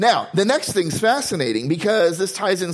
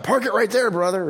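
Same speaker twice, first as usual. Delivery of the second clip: high-pitched imitation of a church shout; mock congregation shout; 6 semitones higher than usual. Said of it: "when you're preaching and you shout".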